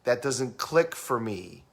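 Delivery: slow, toned-down delivery; slow kinesthetic talker. Acted. Trainer voicing a feeling person's typical phrase, slowly. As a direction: take your time over each word. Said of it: "They talk like this".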